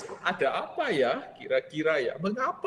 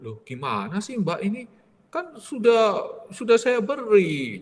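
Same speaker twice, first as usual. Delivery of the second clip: exasperated argument; 8 semitones higher, 5 dB louder than usual. Retold or imitated. Frater argues with the maid, loud and exasperated. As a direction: push back hard, you already paid her.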